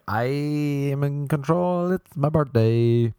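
slow, drawn-out mock proclamation; entitled customer. Birthday girl demanding her song from DJ, entitled. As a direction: stretch every word with self-importance.

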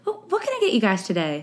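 subtle waitress voice, lifted a touch. Shown as a demonstration. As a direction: nudge it up into a server's register. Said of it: "it's just higher l-, in the register".

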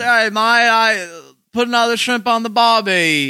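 high, hammed-up Aussie accent passed off as Spanish; mock Spanish accent. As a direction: play a fake Spaniard as a broad Australian. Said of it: "very classic Spanish".

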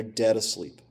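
"dead" weighted, in a softened voice; quiet, deliberate emphasis on "dead"; stress on dead. Real, not acted. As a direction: lean on the word "dead", keeping it soft. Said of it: "I emphasize the word dead".

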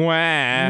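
drawn-out fake baby wail; taunting pretend boo-hoo; mock crying. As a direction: cry it mockingly, plainly fake. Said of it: "I identify as crying".

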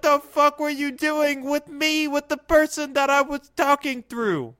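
high, outraged demand; scared and angry. Acted. Outraged confronting him.

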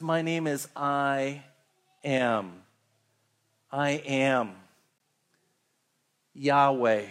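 low, slow and solemn divine voice; God answering Moses from the burning bush, low and slow. Acted. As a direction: let God answer, deep and unhurried.

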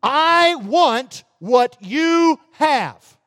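very slow, grasping demand; thief's demand. Retold or imitated. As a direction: drag out the thief's greed. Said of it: "The thief says".

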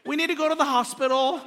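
high, gently sing-song voice to a spouse; mock-calm high voice for bad news; gentle. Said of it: "gently told my wife".

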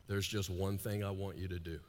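soft, low, intimate; wife's hushed request. Retold or imitated. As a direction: lean in and say it close. Adrian's intimate line retold.

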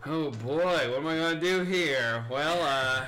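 low-pitched, dithering soliloquy; low self-talk. Acted. Man alone in a bathroom stall, low muse to himself. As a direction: ponder it to yourself in a low voice. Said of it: "It's not talking at this level".

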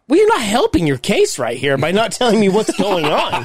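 half-laughing, mock exasperated reply; laughing retort. Retelling his reply to his wife, laughing.

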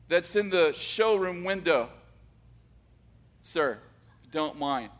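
a touch of nervous stammering, halting; hesitant, trying to be polite to sir; nervous boy. Retold or imitated. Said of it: "Now he's really nervous".

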